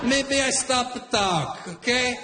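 a hot-headed Italian father threatening the line-cutter; Italian dad. Retold or imitated. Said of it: "My Italian dad right away".

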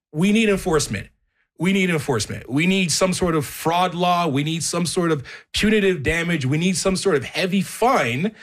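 real rising indignation; worked up. Real, not acted. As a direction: drive each demand home, getting heated. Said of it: "I don't know why I'm getting so upset".

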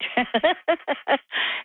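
a bright, pleased laugh that jumps up high; chuckle, pleased with herself; happy little laugh. Real, not acted. Caller pleased she said the name right, laughs happily.

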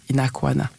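"Inakwana" said as a native Hausa good morning; Hausa greeting. Shown as a demonstration. Guest teaching the Hausa word for good morning, said natively. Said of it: "the way we say good morning is".

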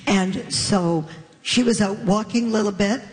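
usual speaking voice

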